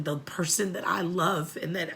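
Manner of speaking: real tears catching the words; crying. Real, not acted. Mother naming jailed loved ones, breaking into tears.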